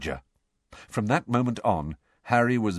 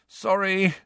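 groaned; 9 semitones higher than usual. Acted. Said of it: "Ron groaned".

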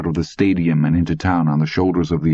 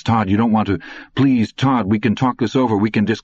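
higher, pleading and scared; frightened pleading; 5 semitones higher than usual. Acted. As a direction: beg him not to shoot. Ed begs at gunpoint.

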